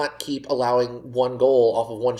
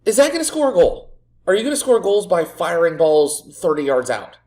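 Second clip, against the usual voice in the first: scornful shout; 3 semitones higher, 5 dB louder than usual. Real, not acted. Manager shouting scorn at a long-range shot. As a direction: scold the shooter with loud scorn.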